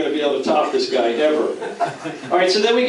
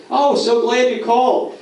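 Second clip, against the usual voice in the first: mock eager reply; 7 semitones higher than usual. Acts rival's eager phone reply.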